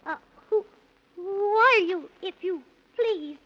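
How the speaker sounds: put-on boy timidly questions the dwarfs; nervous. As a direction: ask shakily, scared.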